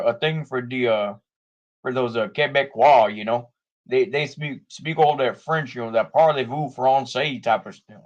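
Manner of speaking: put-on Canadian-Minnesotan accent. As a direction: lightly caricature a Minnesotan-sounding Canadian accent. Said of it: "that's more of a Minnesotan accent".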